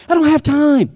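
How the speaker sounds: high, put-on whine; whiny excuse. Preacher voices someone dodging God's call, whiny excuse.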